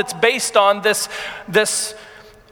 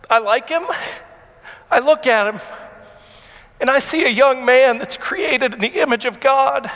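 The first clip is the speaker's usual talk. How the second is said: fighting back tears while speaking of his son; emotional, holding back tears; getting emotional; 3 semitones higher than usual. Real, not acted. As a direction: voice rising, choked with feeling. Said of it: "I'm gonna get emotional".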